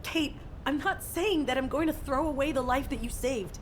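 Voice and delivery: urgent, insistent pleading; earnest appeal. Acted. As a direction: press your case to a hurt friend. Freyna argues back, begging for help.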